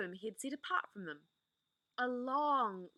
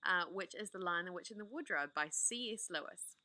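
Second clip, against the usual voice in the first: gentle, inviting host voice settling listeners in; cosy storytime welcome. Acted. Storyteller inviting listeners to get comfortable, gently. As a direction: welcome them in like a bedtime reader. Warm host intro to a read-aloud.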